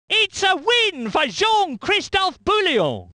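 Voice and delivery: high, celebratory winner's call; triumphant excitement. Acted. Commentator announcing a win for Bouillon, high triumphant call.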